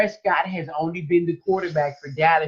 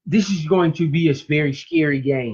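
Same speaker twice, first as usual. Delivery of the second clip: slurred speech. Real, not acted. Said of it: "You're slurring your words".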